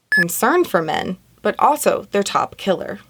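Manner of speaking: a hint of a newsreader cadence; news anchor. Real, not acted. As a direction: read it like a light news headline. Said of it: "I sound like a news anchor".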